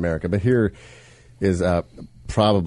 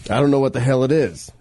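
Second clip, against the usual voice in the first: bad British accent; 4 semitones higher than usual. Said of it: "worst British accent I think I've ever done".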